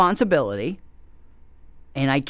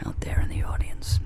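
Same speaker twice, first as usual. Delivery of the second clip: whispered aside; 4 dB quieter than usual. Real, not acted. Hushed aside about the audience.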